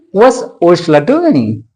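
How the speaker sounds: "doing" made prominent, falling at the end; stressed content words. Shown as a demonstration. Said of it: "put this word under the, uh, stress".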